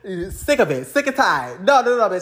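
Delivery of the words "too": mock whiny extrovert. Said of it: "they gonna say".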